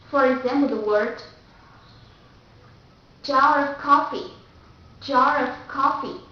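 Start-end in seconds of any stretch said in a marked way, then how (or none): 3.2-6.2 British jar of coffee, R linked to "of"; British accent. Shown as a demonstration. Teacher explaining R before a vowel, British accent. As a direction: pronounce the linking R, British style. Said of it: "the R sound goes before a vowel".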